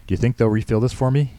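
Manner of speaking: mildly puzzled father; wondering. A narrator's reading. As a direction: wonder aloud, innocently. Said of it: "he wondered".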